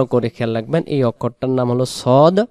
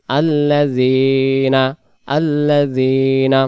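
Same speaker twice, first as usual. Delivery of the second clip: very slow stretched tajweed chant; slow melodic verse recitation; Quran recitation; much slower than usual. Shown as a demonstration. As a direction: draw out the nasal ending melodically. Recites word slowly.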